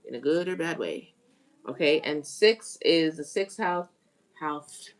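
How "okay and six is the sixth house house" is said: talking with a retainer in; words slurred round a retainer; wearing a retainer. Real, not acted. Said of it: "I got my retainer in my mouth though".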